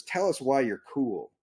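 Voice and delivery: slow, deliberate reading of the email. Retold or imitated. Reading the HR email aloud to the room, slow and deliberate. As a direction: spell out the email's words slowly. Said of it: "it goes".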